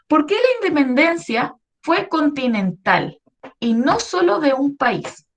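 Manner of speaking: slow, deliberate reading of the question; reading the question aloud. Acted. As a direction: read the prompt out slowly, word by word. (leyendo la pregunta despacio)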